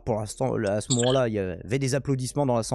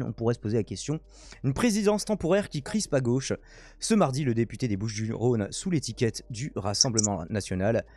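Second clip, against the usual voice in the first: measured news read, headlines pitched up; news article read aloud. Real, not acted. (lecture d'article, ton de journal)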